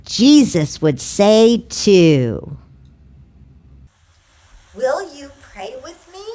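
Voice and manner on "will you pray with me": much softer, gentle prayer invite; soft invitation. Real, not acted. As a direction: hush the room before praying.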